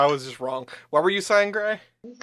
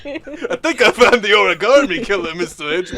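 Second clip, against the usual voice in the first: gumshoe voice. Acted. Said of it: "your gumshoe voice".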